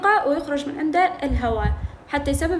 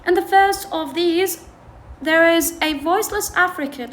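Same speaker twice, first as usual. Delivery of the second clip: slow, careful read of these are called affricates; reading the textbook aloud; 3 semitones higher, much slower than usual. Shown as a demonstration. Teacher reading the textbook to students, slow and careful. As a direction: read the English line slowly for the class. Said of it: "textbook reading".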